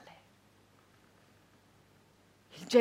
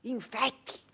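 bitter echo; 11 dB quieter than usual. Acted.

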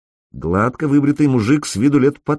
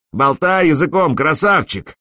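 higher jeering yell; mocking shout; 7 semitones higher than usual. A narrator's reading. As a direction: taunt him across the yard. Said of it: "крикнул пегоусый мужчина".

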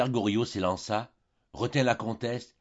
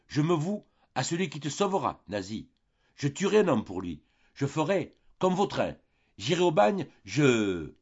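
building from a high plea to a loud, much higher outburst; desperate frenzy; 6 semitones higher, 3 dB louder than usual. A narrator's reading. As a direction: climb into wild despair, breaking off. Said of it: "cria le vieillard désespéré".

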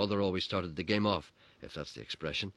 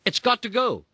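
shrill, much higher mother's shout; 12 dB louder than usual. Retold or imitated. Mother jumping up by the fire, shouting at family. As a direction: blast it out like a furious mother. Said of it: "she shouted".

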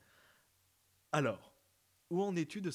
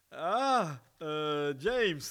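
joyful; 7 dB louder, much slower than usual. Shown as a demonstration. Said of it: "je vais essayer de le faire joyeux".

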